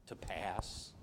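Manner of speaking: hushed, breathless whisper. Retold or imitated. Preacher recalling Jesus's plea in the garden, whispered. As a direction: let the words barely escape.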